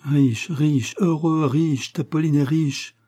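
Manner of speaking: high-pitched rush of happiness; elated outburst, no real laugh or sob; overjoyed, near tears. A narrator's reading. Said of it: "et lui dit tantôt riant, tantôt sanglotant". (exaltation heureuse, voix haute)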